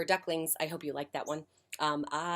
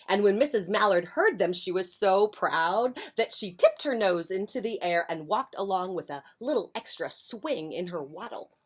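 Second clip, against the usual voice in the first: lively picture-book reading; expressive storytime voice; story narration; 4 semitones higher, 9 dB louder than usual. A narrator's reading. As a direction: read it aloud to young children. Reads picture book to children.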